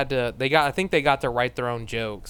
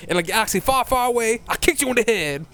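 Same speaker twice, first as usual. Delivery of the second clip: silly cartoon bunny voice; 7 semitones higher than usual. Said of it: "Bunny and Duck character".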